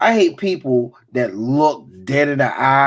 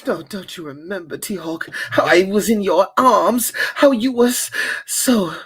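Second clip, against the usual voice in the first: mock jazz love scene. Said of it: "you know what I still heard".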